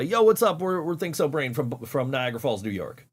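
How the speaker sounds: mild mock band intro; stage shout-out. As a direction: hype up the crowd lightly. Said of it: "every time we would play".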